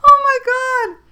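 coughing, choking laugh; sputtering through a choke; choking on a drink. Real, not acted. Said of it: "excuse me, I'm choking".

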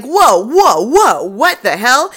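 startled loud whoa, slowing down; mock alarm. Cops halting an intruder, mock startled shout. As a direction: bark a hammed-up stop at the intruder.

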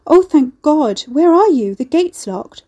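high, loud frantic relief; frantic friend nearly crying down the phone; near tears. A narrator's reading. Mercy on the phone, frantic and close to tears. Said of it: "Mercy sounded close to tears".

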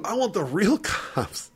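high, slow mock whine with a laugh; mock indignant demand. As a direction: imitate an outraged kid, stretching it out high. Drunk kid demanding other police, retold.

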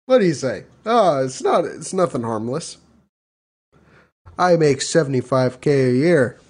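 lightly put-on white American accent. Steve inviting folks to a barbecue, white accent. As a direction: casually boast in a white suburban accent. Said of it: "I can do a white accent".

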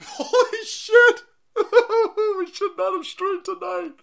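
high, loud laugh through the words. Real, not acted. Streamer cracking up at own joke, laughing. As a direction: crack up while talking.

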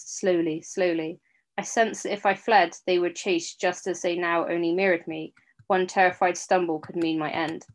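steady storytelling read; story narration. A narrator's reading. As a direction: read it like an audiobook. Reads fiction aloud.

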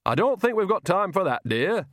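put-on high, sing-song old lady; fake old woman voice. A narrator's reading. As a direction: coax sweetly, a bit high. Fake Nanny voice.

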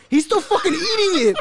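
high-pitched, talking through real laughter; amazed, voice lifted by laughter; laughing disbelief. Real, not acted. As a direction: tell it while cracking up. Laughing at friend still eating.

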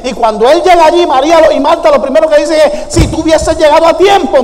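preaching at full force. Acted. Pastor rousing the church about Jesus weeping, preaching at full force.

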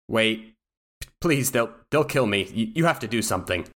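halting, pleading and afraid; frightened, stammering appeal; fearful plea. Acted. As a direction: plead for your life, stumbling over words. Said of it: "there are feelings of fear".

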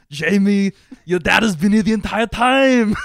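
loud hammed-up hero dad; big mock heroic reveal; Arnold Schwarzenegger. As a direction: announce it as the movie hero. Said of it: "And he was like".

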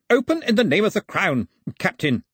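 high, loud official order; commanding shout. A narrator's reading. Gentleman ordering the Captain to open for the Crown, commanding shout. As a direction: order the door open with authority.

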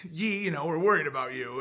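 mildly worried, hesitant put-on voice; Lex Friedman. Lex addressing Yi with worry, understated mock concern. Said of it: "so worried and so freaking out".

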